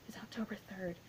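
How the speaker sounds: soft, understated movie quote; quoted reply. Retold or imitated. Imitating posts that answer what day it is, quietly understated. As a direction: drop the voice right down for the answer. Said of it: "What day is it?".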